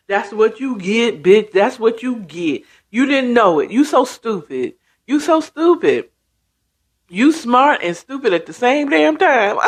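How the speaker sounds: mocking jeer, acted out; taunting. Mom taunting Toy for being so stupid, jeering. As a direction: rub it in like a gloating onlooker. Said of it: "the mom is just taunting".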